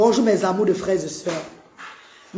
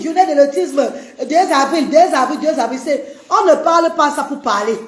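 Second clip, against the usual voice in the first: impassioned; 5 semitones higher than usual. Real, not acted. Passionate autism day speech.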